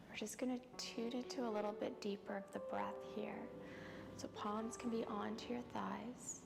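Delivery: soft, unhurried yoga-teacher voice with long pauses; guided yoga relaxation. Real, not acted. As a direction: ease them through each breath, softly. Leads calming yoga practice.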